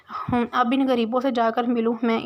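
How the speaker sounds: whispered, sneering under the breath; scornful aside. Acted. Sania scoffs privately at her sister's visit, whispered disdain. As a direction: mutter it with disdain for poor relatives. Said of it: "Sania मुंह बनाती हुई बोली".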